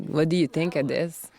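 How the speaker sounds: put-on Quebec accent. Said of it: "seeing as I'm Quebecer, I would be like".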